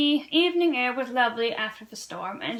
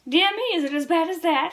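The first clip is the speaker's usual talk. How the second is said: mock consternation; 5 semitones higher, 4 dB louder than usual. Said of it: "he said in mock consternation".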